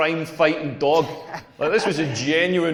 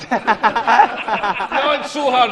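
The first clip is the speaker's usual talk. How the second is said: mock overwhelmed lover; 4 semitones higher, much slower than usual. Comic imagining what he wishes she said, hammed-up and slow. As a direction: ham up a lover begging him to ease off. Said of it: "I wanna hear stuff like".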